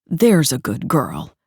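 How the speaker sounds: slow, mocking coo. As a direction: coo it condescendingly. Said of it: "Stavros cooed".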